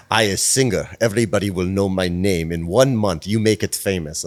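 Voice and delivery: lightly hammed Russian accent; bad Russian-Ukrainian accent. Singer pitches herself to publicist, mock Russian accent. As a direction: imitate her in a rough Russian accent. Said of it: "this is gonna be the worst accent".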